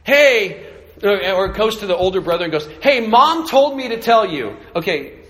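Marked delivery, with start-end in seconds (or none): 0.0-0.7 put-on higher, louder kid's hey; calling out. Little brother calls to the parents, higher and louder. 2.8-4.6 put-on higher, louder bratty kid; little brother voice. Little brother passes on Mom's message, higher and louder.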